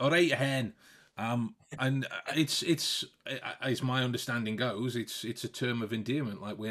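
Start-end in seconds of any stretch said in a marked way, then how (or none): 0.0-0.7 loud mock-Scottish greeting; playful, forceful Scottish hello; Scottish accent. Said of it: "in a Scotch accent".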